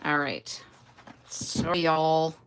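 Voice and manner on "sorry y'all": light fake Southern "y'all"; a mild Southern twang on "y'all"; fake Southern accent. Apologizing to viewers in a fake Southern accent. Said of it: "my fake southern accent".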